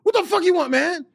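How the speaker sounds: put-on high, loud gruff old man voice; angry old man. The speaker mimics Dick Gregory calling back, high and loud. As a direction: bark it like a cranky old man.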